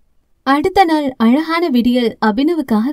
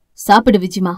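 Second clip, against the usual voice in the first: tender; 5 semitones lower than usual. Acted. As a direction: offer the plate gently, lower. Brother offers sister food.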